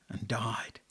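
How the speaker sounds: a dying whisper; whispered fade. A narrator's reading. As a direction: let the words go out like the flame. Feather's flame dies out.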